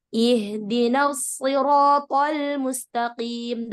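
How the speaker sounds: slow, drawn-out Quran recitation. Shown as a demonstration. Teacher reciting the verse being studied, slow recitation. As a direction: recite it slowly, holding the long vowels. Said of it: "huruf shad sekarang".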